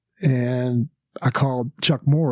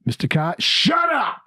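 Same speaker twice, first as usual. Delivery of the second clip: mock Cosby snap; 8 semitones higher than usual. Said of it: "he just, like".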